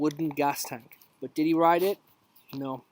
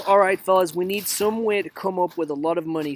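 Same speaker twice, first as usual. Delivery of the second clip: loud excited cartoon boss, light touch; rally the crew like a cartoon mouse boss; hint of Mickey Mouse; 3 semitones higher, 6 dB louder than usual. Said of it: "says Mickey Mouse".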